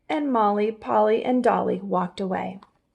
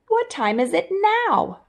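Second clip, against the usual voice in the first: squeaky chipmunk; 10 semitones higher than usual. Acted. Chipmunk asking.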